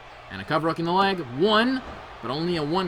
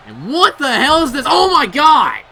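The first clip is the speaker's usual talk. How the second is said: loud, higher shocked outburst; stunned yell; 8 semitones higher, 11 dB louder than usual. Real, not acted. Commentator yelling in disbelief at the inverted stratosphere. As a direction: shout out in disbelief at the move.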